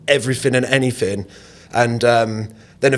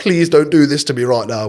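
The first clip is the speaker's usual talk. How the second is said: pleading. Retold or imitated. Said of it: "pleading with him".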